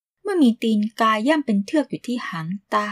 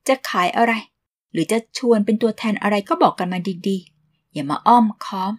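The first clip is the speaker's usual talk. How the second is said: mock tough. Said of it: "ลองโหดดูอีกสักตั้ง".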